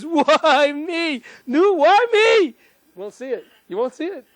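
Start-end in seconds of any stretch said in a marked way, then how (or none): 0.0-2.5 high, louder and slow hammed-up cry of why me; overplayed despair calling out to the sky; theatrical high lament, stretched out; mock anguished wail. Shown as a demonstration. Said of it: "You'll never see a person go like this".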